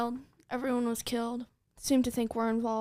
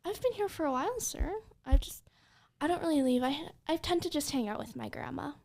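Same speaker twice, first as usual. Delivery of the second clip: higher, slightly hesitant excuse; acting innocent; 4 semitones higher, faster than usual. Player answers the officer who approached, acting innocent. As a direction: pitch it up, innocently explaining. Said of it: "I'm gonna look at him like".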